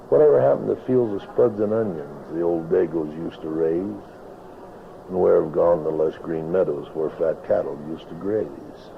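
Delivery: rhythmic rhyming recitation, lightly performed; cowboy poetry. Acted. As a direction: recite it like a tale by the campfire. Recites his poem The Vanishing Valley.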